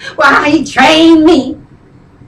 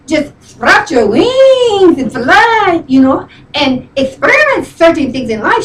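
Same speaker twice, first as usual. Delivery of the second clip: lightly imitated friend preaching with swooping pitch; friend's voice. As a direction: mimic your friend lecturing her. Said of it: "she talks like this".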